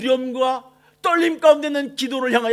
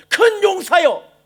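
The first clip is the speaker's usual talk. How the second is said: slow, booming call, higher and louder; slow proclamation of "큰 용사여" with a drawn-out, higher, louder voice; God's call; 9 semitones higher, 8 dB louder, much slower than usual. Acted. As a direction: call him out like a thundering voice from heaven. God calls out to Gideon.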